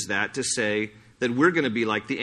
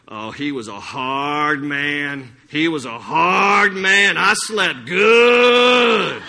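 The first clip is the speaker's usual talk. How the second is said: slow, drawn-out widow, building to a laughing shout; hammed-up relieved widow, slow and loud; preacher imitates the widow at the casket, slow and laughing; mock widow, relieved; 8 dB louder, much slower than usual. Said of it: "she goes".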